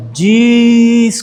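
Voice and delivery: high, drawn-out start of an apology; cut-off apology. Retold or imitated. Husband starting to apologise after a bump, high and drawn out.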